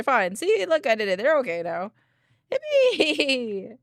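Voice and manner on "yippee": cheering. Real, not acted. Celebrating after rescuing them.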